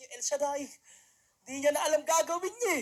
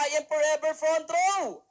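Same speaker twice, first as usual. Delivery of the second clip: slow, loud rallying cry, each word pressed; shouted slogan; 2 semitones higher, 3 dB louder than usual. Retold or imitated. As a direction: shout it like a team chant. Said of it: "Sisigaw ka". (mabagal at malakas na pasigaw na sigaw ng grupo)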